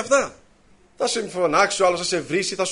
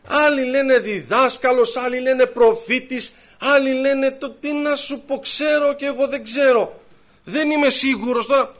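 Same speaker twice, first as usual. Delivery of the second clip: mock hesitant; 4 semitones higher, 3 dB louder, slower than usual. Mimics a hesitant, unsure believer.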